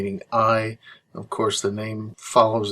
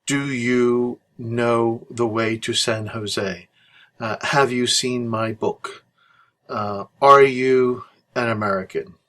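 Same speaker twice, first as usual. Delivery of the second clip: slow example questions; slower than usual. Shown as a demonstration. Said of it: "For example".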